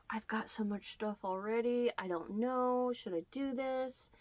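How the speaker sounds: soft unvoiced whisper to herself; whispered doubt. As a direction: mull it over under your breath. Hesitating over the price.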